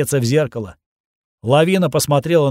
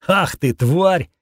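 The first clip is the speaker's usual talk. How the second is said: slow, drawn-out snarl at the mutant; angry curse; 4 semitones higher, much slower than usual. Acted. Hero snarls at the mutant, slow and far from his own voice. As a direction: spit out the insult slowly.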